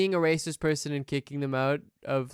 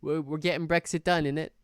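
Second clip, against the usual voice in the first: rough London slang. Retold or imitated. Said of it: "conservative position of, like".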